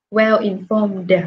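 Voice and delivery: "informed" said very slowly, ending on a clear d; slow model reading. Shown as a demonstration. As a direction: stretch "Well informed" and voice the final d. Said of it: "Tận cùng là M, cho nên là E D sẽ được phát âm là đờ".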